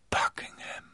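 Buckingham murmured toneless, voiceless and soft. Acted. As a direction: mutter Buckingham under the breath, flat. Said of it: "murmelte er tonlos".

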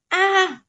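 short, high "ah" of pain; cry of pain. A narrator's reading. Captive cries out as the shard cuts him, pained cry. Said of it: "Trần Kiến Thế kêu to".

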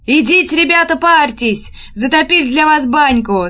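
high-pitched village woman's call. A narrator's reading. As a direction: call the lads over heartily. Village woman calls out to the soldiers. (звонкий зазывный окрик)

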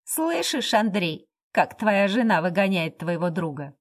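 mocking. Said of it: "насмешливо оглядел обеих".

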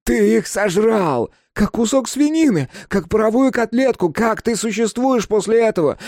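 high, loud hysterical tirade; anguished shouted accusation; yelling, voice breaking. A narrator's reading. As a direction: rant at the top of a cracking voice. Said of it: "заорал он ломающимся голосом".

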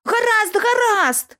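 високий, гучніший крик хлопця; заверещати від страху, здаючись; переляканий вереск. Acted. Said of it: "заверещав зненацька підліток". (підліток верещить, що все розповість, переляканий вереск)

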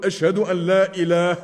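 phrase broken off at "إله"; falls silent mid-phrase. Shown as a demonstration. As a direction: stop dead after "إله". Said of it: "ويسكت".

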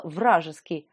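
low, quiet disbelief; incredulous repeat. A narrator's reading. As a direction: say вражеский low and soft, as if unable to believe it. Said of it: "неужели она и правда сказала".

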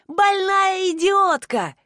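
slow, high yelled insult; shouted insult. A narrator's reading. Abandoned man shouting slowly at the departing car. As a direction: hurl the insult after her. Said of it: "кричал он вслед".

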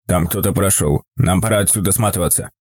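put-on low, hushed old man's warning. A narrator's reading. Old man warns of intruder. (низкий тревожный шёпот старика)

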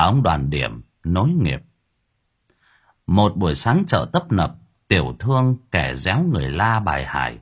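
steady, measured storytelling voice; story narration. A narrator's reading. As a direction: tell the village tale evenly to listeners. Storyteller reads a ghost tale.

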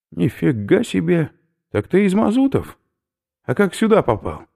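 can't believe the answer; amazed. Acted. Oberführer amazed the prisoner is from Mazuty, loud high exclamation.

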